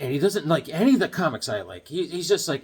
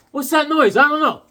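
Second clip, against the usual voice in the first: high silly voices; 8 semitones higher, 6 dB louder than usual. Acted. Mock dialogue about a noise.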